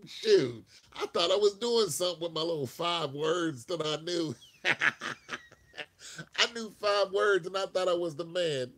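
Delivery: amused, self-mocking laugh; laughing self-mockery. Real, not acted. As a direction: laugh at yourself loudly. Laughing at his own overconfidence.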